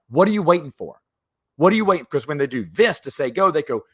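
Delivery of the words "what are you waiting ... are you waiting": loud, higher, exasperated call; frustrated mock yell; impatient shout. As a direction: yell it at the dawdler. Rescuers impatient at delayed signal.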